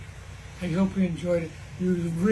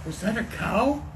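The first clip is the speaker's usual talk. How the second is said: trembling, unsure question; shaky voice. Acted. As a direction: ask it with a shaking voice. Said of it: "the shaky voice Sawyer replied".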